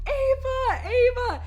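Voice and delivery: high, loud calls of a name; calling out. Retold or imitated. Friends searching the rocks calling her name.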